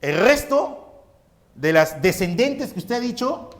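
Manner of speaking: lightly voiced student checking with the professor; student asking. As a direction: ask like a pupil working it out. Teacher voices a student's question.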